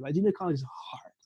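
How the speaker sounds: whispered "Like, junior college is hard.". Shown as a demonstration. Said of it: "Like, don't get it twisted".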